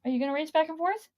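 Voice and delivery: fast, bright talk to a dog; pet talk. Real, not acted. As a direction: chatter to the excited puppy. Talking to the dog.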